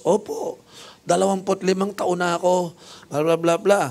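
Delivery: high, self-satisfied answer; proud nurse voice. Retold or imitated. (mayabang na sagot ng nars)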